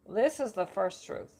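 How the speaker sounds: chatty New York oracle holding court; lightly done New Yorker accent; bad New Yorker accent. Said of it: "New Yorker accent".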